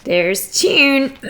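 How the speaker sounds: ordinary delivery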